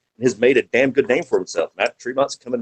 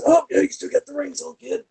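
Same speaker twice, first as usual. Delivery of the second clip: much higher, mock old-timer ribbing the kid; teasing old veteran; 4 dB quieter than usual. Veteran checking the young wrestler's hands, in a much higher teasing voice. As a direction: rib him like a grizzled elder. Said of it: "Robert Gibson always looks in my hands".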